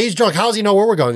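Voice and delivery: high, mock-shouting driver; lightly voiced roadside yeller; mock trucker yell. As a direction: yell it like an angry passerby. Truckers yelling, quoted.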